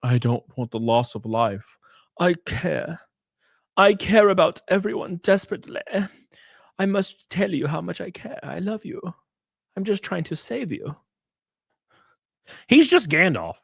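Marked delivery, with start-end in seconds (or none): 0.0-11.0 high, syrupy earnest voice; mock caring savior. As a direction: overact how much he cares. Voicing the savior again.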